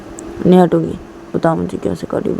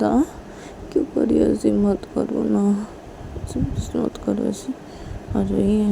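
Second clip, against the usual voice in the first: soft pleading; 4 dB quieter than usual. Acted. पीयू धीरे से मनाती है.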